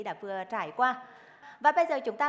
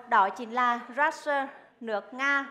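ordinary delivery

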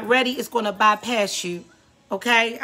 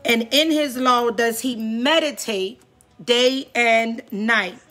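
emphatic psalm reading with drawn-out key phrases; preaching scripture reading. Acted. Preacher reads the psalm to listeners tonight, preaching scripture reading. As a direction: proclaim each verse to the congregation, stretching the endings.

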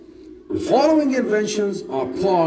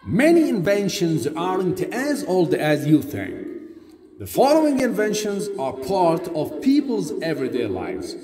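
textbook audio read. Acted. Played listening tape.

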